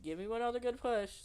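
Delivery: high, loud urging shout; doctor yelling encouragement to SpongeBob; yelled. Acted. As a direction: call it over the screaming. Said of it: "Doctor Twilight yelled".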